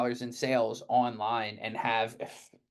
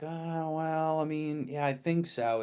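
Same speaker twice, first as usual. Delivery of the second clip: unsure, hedging reply, pitched higher; mock wavering yes with trailing hesitation; hesitant client; 5 semitones higher, slower than usual. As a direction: play a client who isn't really committed. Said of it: "it's like".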